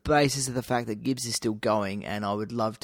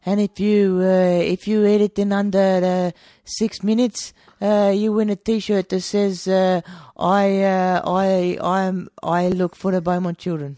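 higher and louder, hammed-up pitchman voice; put-on character voice; 7 semitones higher, 8 dB louder than usual. Mock pitchman to co-host, describing a hat pie, higher and louder. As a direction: sell the pie floater gimmick like a goofy carnival barker.

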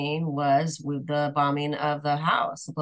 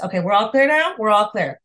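tag; 3 semitones higher, 6 dB louder than usual. Retold or imitated. Mock confident reply repeated.

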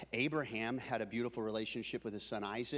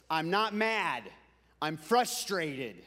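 dad's mock-stern denial, slowing down; imitating frustrated dad; 4 dB louder, slower than usual. Preacher quoting his dad's favorite saying, mildly frustrated. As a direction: stress "not", then drag out "frustrated". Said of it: "he thought that being mad was".

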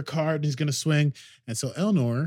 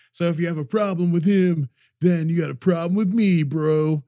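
louder, higher brash warrior threat; tough Elnor voice; 6 semitones higher, 8 dB louder than usual. Retold or imitated. Elnor warns crowd he defends Picard, brash. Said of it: "I don't wanna do this voice".

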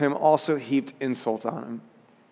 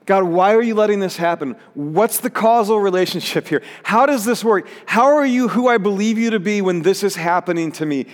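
higher, urgent questioning of God; crying out; 5 semitones higher, 4 dB louder than usual. Acted. Preacher voicing Jesus' unknowing on the cross, crying out. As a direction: plead upward in raised, imploring questions. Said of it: "and he cries out".

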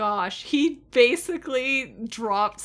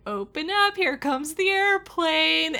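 put-on higher sing-along coaxing, as to a toddler; soothing a child; 5 semitones higher than usual. Garth soothing Dean like a child, coaxing. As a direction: imitate coaxing a small child to eat. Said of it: "soothing Dean like a child".

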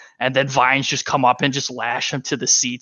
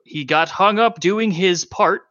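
higher, measured festival announcer; 5 semitones higher than usual. Acted. Announcer reads Mira's message to contestants, projected announcer voice. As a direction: read the message out to the crowd like a host. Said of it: "sounds like an announcer, uh, voice".

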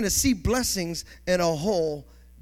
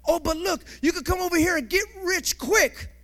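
higher, coaxing tempter; the world whispering temptations, higher and coaxing; tempter's voice; 9 semitones higher than usual. Acted. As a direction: lure them like the world calling. Tempter voiced offering worldly shortcuts.

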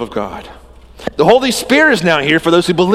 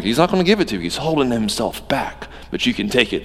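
low tempting voice; 4 semitones lower, faster than usual. Acted. Preacher voices the tempter's whisper.

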